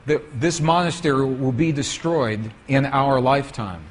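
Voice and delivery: low, grave retold warning; lightly voiced solemn monk, pitched low; very serious monk. Monk warns visitors that war will destroy the monastery, very serious. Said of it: "the monk became very serious".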